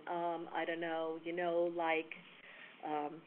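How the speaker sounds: slow, trailing filler mumble; hesitant, slowed-down stalling; rambling fillers. Shown as a demonstration. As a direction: show how vague filler talk sounds. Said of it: "it sounds much more professional than".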